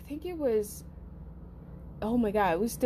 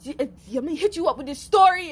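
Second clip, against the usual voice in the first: excited call; 7 semitones higher, 4 dB louder than usual. Retold or imitated. Calling to mom excitedly.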